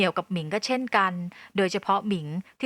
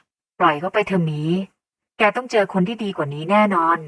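consoling; 5 dB louder than usual. A narrator's reading. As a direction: reassure your son after the quarrel. Mother consoles her son. (ปลอบโยนลูก)

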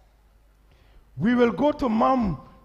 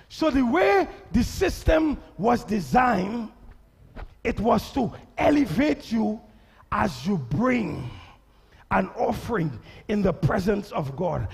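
slow, carefully spelled out; over enunciating. Shown as a demonstration. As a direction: say every word slowly. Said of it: "let me say this slowly".

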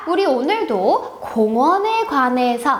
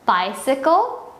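very slow, clear teacher demo; slow model sentence; much slower than usual. Shown as a demonstration. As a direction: stretch each word out for the kids. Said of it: "너는 내 자전거를 가져왔니". (아주 천천히 또박또박)

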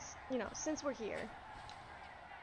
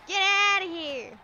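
loud, high, slow yell; shout; 6 semitones higher, 8 dB louder, slower than usual. Real, not acted. Yelling at the fiend to clear off. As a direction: drive the monster off with a yell.

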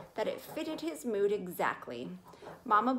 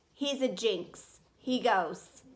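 firm final verdict; 3 dB louder, slower than usual. Acted. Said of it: "as firmly as the door being closed".

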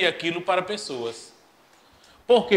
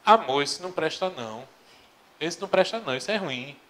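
wife gently steering husband at the supermarket, patient; 3 dB quieter, faster than usual. Acted. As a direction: calmly soothe her husband. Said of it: "A mulher com toda a paciência do mundo".

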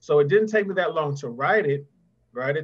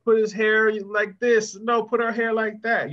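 slow, insistent, raised and pushing louder over every detail; fussy perfectionist instructions; 5 semitones higher, 4 dB louder than usual. Retold or imitated. Author retelling orders to his illustrator, fussy and insistent. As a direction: nitpick each choice like a demanding client. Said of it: "I had to say".

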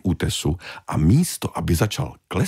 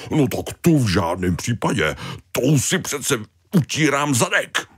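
indignant Tony; 7 semitones higher than usual. Acted. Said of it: "Tony refuses".

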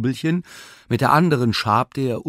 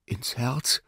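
cowardly question; 4 dB quieter than usual. Acted. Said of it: "erkundigte er sich feige".

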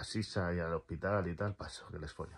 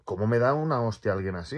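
a touch louder, retold indignation; mild indignant outburst; 3 semitones higher, 6 dB louder than usual. Kicked while running, he mildly indignantly retells his reaction. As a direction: ask it half-outraged, as if someone just kicked you. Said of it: "Como diciendo".

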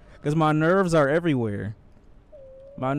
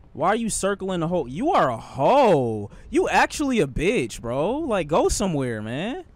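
exasperated scolding with swooping pitch; exasperated rant; 3 semitones higher than usual. Real, not acted. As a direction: rant at the enemy, leaning hard on key words. Yelling at the enemy circling him.

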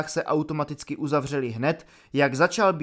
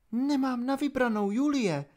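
higher and soft, apologetic; softly resigned captain; 9 semitones higher, 4 dB quieter than usual. A narrator's reading. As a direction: she has no choice and knows it. Holly, resigned, to commander. (tiše, vyšším hlasem, rezignovaně)

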